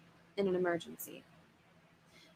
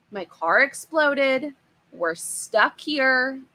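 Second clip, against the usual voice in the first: louder, higher, slow desperate outcry; frantic plea; 5 semitones higher, 5 dB louder, slower than usual. Acted. Stranded father begging the monster for help, slow loud distress. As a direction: push each word out in distress.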